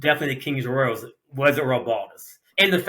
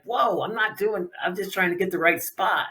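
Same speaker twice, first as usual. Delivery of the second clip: higher-pitched, defensive protest; retold protest; 5 semitones higher than usual. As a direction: act out backing off when grabbed. Retold protest when grabbed.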